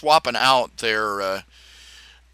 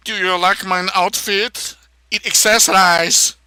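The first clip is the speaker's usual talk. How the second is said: higher put-on voice preening over an outfit; a hint of a flamboyant fashion show; lightly voiced camp preening; mock camp voice; 7 semitones higher, 6 dB louder than usual. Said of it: "decide to talk like Arnold Schwarzenegger".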